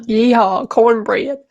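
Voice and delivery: slow, lightly mocked Southern twang; imitated country accent. Co-host quoting friend at home, lightly mocked country accent. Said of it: "because you were like".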